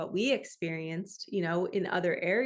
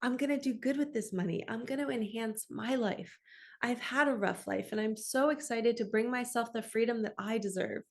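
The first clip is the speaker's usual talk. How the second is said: sweet and kind. Shown as a demonstration. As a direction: speak to yourself sweetly and kindly. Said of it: "talk to yourself so sweetly and so kindly".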